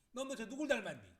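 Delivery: loud, high, fast-building scolding; insulting mom. Retold or imitated. Mom to child who scored forty, insulting scolding. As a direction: berate the child like an exasperated mother. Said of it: "막 모욕합니다".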